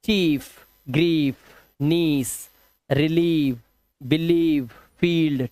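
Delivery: चीफ, ग्रीफ, नीस each with a clear long "ee"; word by word, hold "ee" in रिलीव, बिलीव. Shown as a demonstration. Teacher reading IE examples, long "ee" in चीफ and फील्ड. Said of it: "ई से करना है".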